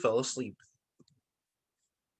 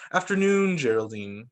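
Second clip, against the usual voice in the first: mild grumble; 3 semitones lower than usual. Acted. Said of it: "Mister Peters grumbled".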